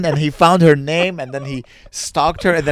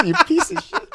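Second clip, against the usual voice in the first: put-on stereotypical Arab accent. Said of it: "talking in this accent".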